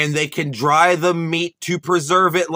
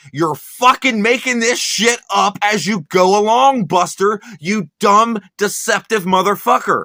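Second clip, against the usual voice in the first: furious rant; 5 semitones higher, 4 dB louder than usual. Real, not acted. Mocking Buster's invented wife of Clovis, angrily raised. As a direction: lay into him harder line by line.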